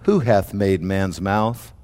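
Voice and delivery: slow, low solemn voice of God; the Lord speaking low and slow to Moses. Acted. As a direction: intone it like the Lord rebuking. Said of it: "The Lord said unto him".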